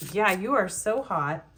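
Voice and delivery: lightly put-on old Hollywood actress lilt; a hint of a 1940s screen siren; old-timey movie actress. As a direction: purr it like a vintage film starlet. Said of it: "talking like those, like, old-timey movie actresses".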